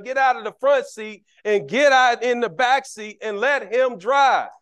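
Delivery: rising sermon emphasis; preaching. Real, not acted. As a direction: drive the point home to the congregation.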